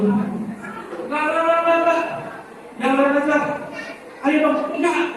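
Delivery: lightly acted panicky refusal; flustered refusal. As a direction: mimic balking at being asked on stage. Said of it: "Ketika disuruh".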